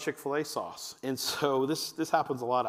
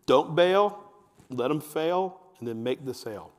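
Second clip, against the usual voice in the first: emphatic slogan; 5 dB louder than usual. Shown as a demonstration. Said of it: "Remember this phrase".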